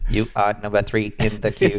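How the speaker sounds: lightly voiced automated phone robot. Host fakes a call-queue message to dodge work calls, light robot voice. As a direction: recite it like a hold-line machine. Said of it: "do it in a robot voice".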